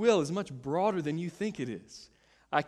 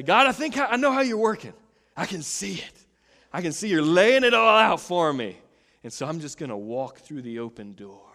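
eager self-assured prayer; 3 semitones higher, 9 dB louder than usual. Retold or imitated. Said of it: "to look and say".

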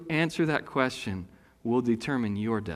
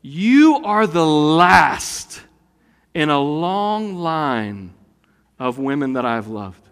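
drawn out and slow, grandly sincere; a husband making a grand mock declaration; mock solemn, very slow; slow solemn line; 5 dB louder, slower than usual.

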